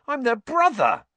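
high, loud indignant protest; outraged. A narrator's reading. Ron indignant his brothers kept the map, outraged. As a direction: complain like a wronged younger brother.

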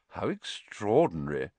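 understated amusement; mild, dry wonder with hidden amusement; quietly amused. Acted. Dumbledore pretending surprise at the escape, faintly amused. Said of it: "a note of amusement in his voice".

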